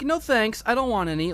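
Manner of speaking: imitating a courteous no-thanks; polite refusal. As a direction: turn it down nicely, keeping it light. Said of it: "I'm polite about it".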